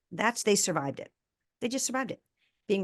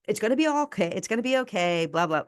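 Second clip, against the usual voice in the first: higher and louder, glib brush-off comfort; mock breezy reassurance; 3 semitones higher, 5 dB louder than usual. Mother mocking what she could have told her son: hollow, chipper reassurance. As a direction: chirp it like an empty platitude. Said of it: "that was not the place for it".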